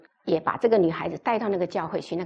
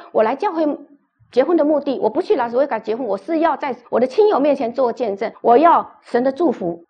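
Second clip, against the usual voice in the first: indignant insistence; 4 semitones higher, 4 dB louder than usual. Retold or imitated. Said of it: "他就很生气了".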